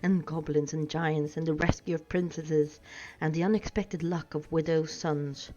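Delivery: lightly voiced hobbit, breathless with delight; excited hobbit. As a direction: gush with recognition. Bilbo recognises Gandalf excitedly.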